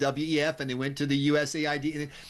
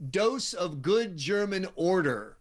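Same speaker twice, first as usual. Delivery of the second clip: put-on German accent; 2 semitones higher, slower than usual. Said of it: "said in a German accent".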